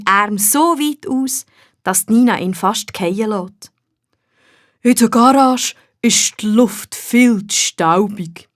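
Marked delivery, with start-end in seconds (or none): 4.8-8.5 slow, dreamy gnome voice; a gnome sighing with joy; contented gnome. A narrator's reading. The gnome stretches out happily in Nina's arms, slow dreamy gnome.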